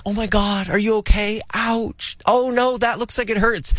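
high-pitched mock concern; sympathetic parent. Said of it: "like, the sympathetic parent".

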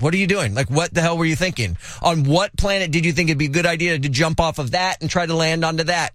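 mildly acted exasperation; a touch of disbelieving annoyance; annoyed parent. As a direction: tell off a kid without raising the volume. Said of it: "I'm annoyed".

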